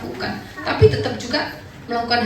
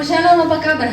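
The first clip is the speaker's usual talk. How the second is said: curt greeting; 4 semitones higher, 5 dB louder than usual. Retold or imitated. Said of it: "biasanya ngomong".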